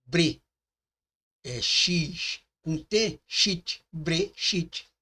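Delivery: bre and chit said apart, then joined as brechit; sounding out words. Shown as a demonstration. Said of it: "Então, tem B com R".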